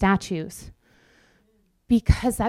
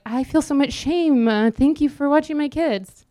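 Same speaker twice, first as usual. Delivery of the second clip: voicing an ashamed parent; 5 semitones higher than usual. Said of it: "they're like".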